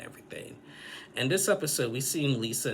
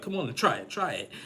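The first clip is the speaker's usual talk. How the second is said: mild mock yell, pitched up at the start; retold aggressive yelling; 5 semitones higher than usual. Boyfriend pushing Lisa to pronounce the drink, mildly aggressive. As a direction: imitate someone getting pushy, only slightly raised. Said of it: "he raised his voice and got aggressive".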